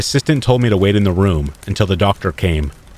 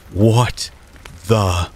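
terrified. A narrator's reading. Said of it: "sounding completely terrified".

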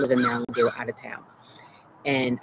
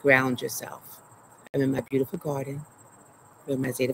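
calm instruction. Shown as a demonstration. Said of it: "what we'll say is".

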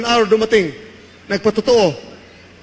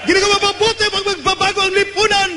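full-force preaching; 7 semitones higher than usual. Acted. Pastor shouting to church about eternal life, full-force preaching. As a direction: drive it home to the crowd.

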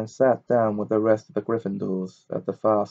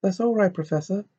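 high, lightly gasped reassurance; gasping; 10 semitones higher, faster than usual. A narrator's reading. Pupil to the teacher who grabbed her neck, mildly gasped. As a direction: answer as if the throat hurts. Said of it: "Hermione gasped".

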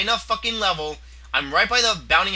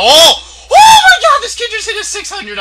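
high panicked screaming; 12 dB louder than usual. Real, not acted. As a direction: shriek in real panic. Hit for huge damage.

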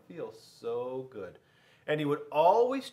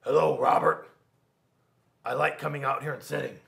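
teacher greeting; 9 dB louder than usual. Acted. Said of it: "Miss Kirby said".

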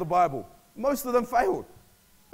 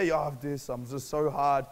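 lower, mock self-pitying complaint; mock moping; 5 semitones lower, slower than usual. Mocking someone who mopes after failing, mock moping. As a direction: imitate someone feeling sorry for themselves. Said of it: "when you mope around".

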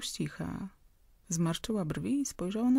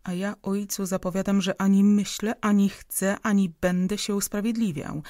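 louder, defiant son shouting back; defiant outburst; 5 dB louder than usual. Acted. Son defies his father in a quarrel, loud and defiant. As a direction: throw every refusal in his face.

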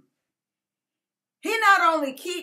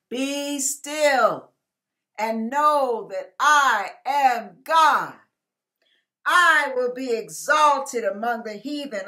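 scripture reading. Real, not acted. Preacher reading the psalm to his viewers, solemn and measured. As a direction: read the psalm with weight.

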